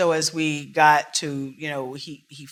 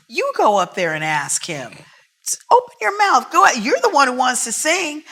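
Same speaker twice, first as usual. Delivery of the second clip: pushy mother; 9 semitones higher, 9 dB louder than usual. Retold or imitated. Mother urges shy daughter.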